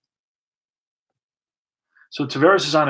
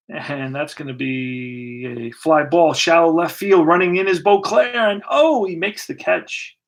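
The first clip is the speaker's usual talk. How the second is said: excited play-by-play; 2 semitones higher than usual. Pretend. Live call of fly ball catch.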